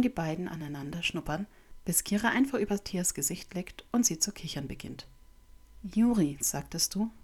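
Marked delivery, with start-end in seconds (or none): 5.8-7.1 zögernd nachfragen, Yuri betont; unsicher, vorsichtig fragen; zögerlich. Acted. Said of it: "fragt Linnea zögerlich". (zögerliche Frage)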